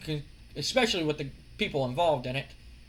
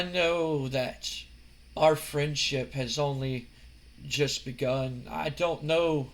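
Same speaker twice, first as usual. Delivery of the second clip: Goldust voice; slower than usual. Retold or imitated. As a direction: tease him slowly like a creepy admirer. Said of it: "and he goes".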